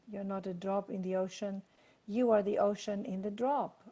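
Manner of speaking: repeating the line softly. Shown as a demonstration. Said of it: "I'm gonna say that again".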